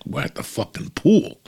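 the wife shouting happily from the pool; mock excited shout.

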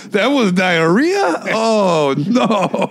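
hammed-up dismay; mock horror. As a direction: gasp at the realization. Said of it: "they're like".

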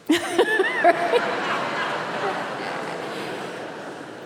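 a long breathy burst of laughter; laughing. Real, not acted. Host laughs at Subaru joke.

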